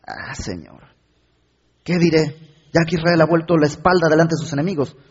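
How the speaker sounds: anguished plea to God that ends in a defeated murmur; Joshua's anguished lament. Shown as a demonstration. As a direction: cry out to God in despair, then sink. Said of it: "con la entonación que creo que Josué le está dando".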